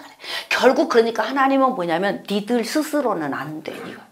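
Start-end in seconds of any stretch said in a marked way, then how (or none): 2.3-4.0 soft whispered verdict; God whispering a stern verdict. Acted. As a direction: whisper it solemnly.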